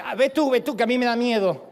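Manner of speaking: mock-scared plea to go check; pushing him forward, half-frightened; scared wife. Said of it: "tu mujer te dice".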